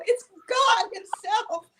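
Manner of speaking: slow, high, drawn-out awe; awestruck announcement. Retold or imitated. Telling mother the famous caller is on the line, slow and awed. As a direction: announce it like a miracle. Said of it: "I go".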